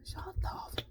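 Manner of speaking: breathy under-the-breath curse; whispered curse. Retold or imitated. Cursing quietly at the roommate, whispered. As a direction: hiss it so only you hear. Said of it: "And I'm just like".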